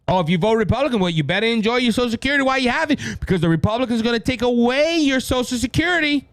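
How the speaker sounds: sarcastic parody of a fearmongering pitch; mock scare warning. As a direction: rattle off the threat in a sneering put-on tone. Mocking Democrats' scare warnings.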